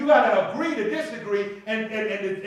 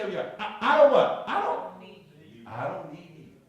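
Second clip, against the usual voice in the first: defiant spouse; 3 semitones lower than usual. Acted. Acted stubborn spouse.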